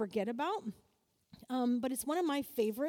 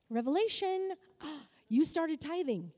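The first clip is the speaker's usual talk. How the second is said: mock revelation; 2 semitones higher than usual.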